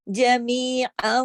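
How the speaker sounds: drawn-out recitation; slow tajweed recitation. Shown as a demonstration. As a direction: stretch the madd slowly. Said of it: "وہ ختم ہو جائے گی". (آہستہ تلاوت)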